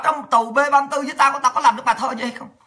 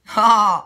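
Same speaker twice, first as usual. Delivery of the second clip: scornful laugh; 3 dB louder than usual. Real, not acted. Scoffs at being killed.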